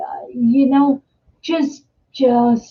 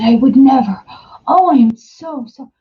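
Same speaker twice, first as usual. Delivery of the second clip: louder, emphatic mock dismay; imitating horrified neighbor; 5 dB louder than usual. Horrified neighbor denying an insult to the teller, mock horror. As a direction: protest as if appalled at the accusation. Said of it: "The poor guy was so horrified".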